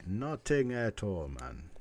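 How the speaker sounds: put-on slow, light Jamaican accent. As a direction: lay back into a Jamaican lilt. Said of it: "as my Jamaican friends would say".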